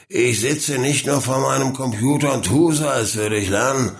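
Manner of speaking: put-on drunken slurred father voice; slurring. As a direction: slur the words like a drunk. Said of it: "lallte er".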